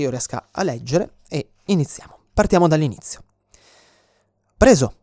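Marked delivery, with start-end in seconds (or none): 4.6-5.0 un grido di trionfo, più alto e più forte. Retold or imitated. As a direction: urla "preso" a qualcuno di sotto. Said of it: "gridò qualcuno". (un grido più forte e acuto)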